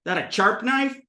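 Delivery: brother's ch for sh in "sharp"; sh turned to ch. Retold or imitated. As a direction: start "sharp" with a ch. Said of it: "take sh sounds and make them ch".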